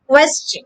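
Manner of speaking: "question" said slowly, KW then CHEN, rising; model pronunciation. Shown as a demonstration. Teacher modelling a word for the class, clear and slow. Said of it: "the correct pronunciation is".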